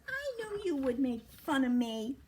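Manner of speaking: hurt. A narrator's reading. Fuzz thinks Cork makes fun, hurt. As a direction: complain with acted hurt feelings.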